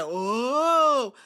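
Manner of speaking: crowd gasp. Retold or imitated. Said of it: "the audience was just like".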